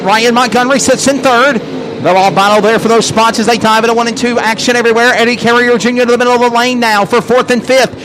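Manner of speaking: fast race-call commentary; live play-by-play. Real, not acted.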